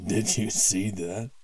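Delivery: gleeful laughing brag. Acted. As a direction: laugh through it. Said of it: "one of the mercenaries laughed".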